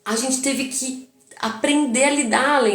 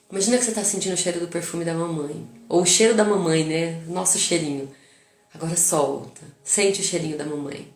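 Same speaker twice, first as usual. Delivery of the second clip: put-on guided breathing for child; 4 semitones lower than usual. Shown as a demonstration. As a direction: lull him into the breath. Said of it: "Então tá bom, ó".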